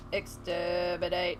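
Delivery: lightly voiced robot; a hint of a robot, softly; robot line. Streamer quoting famous robot lines, lightly robotic. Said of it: "famous robot lines".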